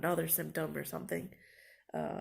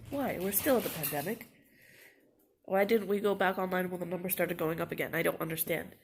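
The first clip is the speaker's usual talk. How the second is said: louder, indignant complaint; 5 dB louder than usual. Real, not acted. Student angry at her school for in-person classes, louder. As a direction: demand an answer, voice raised. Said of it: "I'm so mad".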